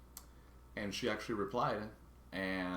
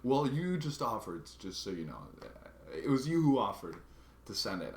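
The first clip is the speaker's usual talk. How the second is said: retorting clerk; 3 semitones higher, 5 dB louder than usual. Retold or imitated. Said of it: "retorts with".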